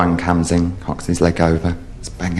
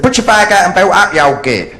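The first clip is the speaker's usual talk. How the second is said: high, raised-voice rebuke; exasperated shouting; 11 semitones higher, 3 dB louder than usual. Acted. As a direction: shout it at someone hard of hearing. Shouts answer to old man.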